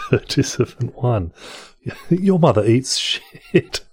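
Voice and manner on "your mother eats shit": put-on posh English accent, higher, slow, breaking into laughs; laughing posh English accent. Reading a rude insult, laughing posh English accent. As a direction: try to stay posh but laugh through it. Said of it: "in a posh accent".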